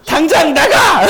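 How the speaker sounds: mock shout, laughing through it; angry father's shout. Pastor retelling how his father threw him out, laughing mock shout. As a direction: bark out the father's order half-laughing. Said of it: "저희 아버지가 뭐라고 했는".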